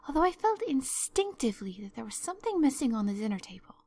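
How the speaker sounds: dreamy, talkative girl, lightly acted; lightly voiced Anne. Anne explains to Marilla how she forgot the pie, earnest and dreamy. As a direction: explain earnestly, carried off by your own fancies.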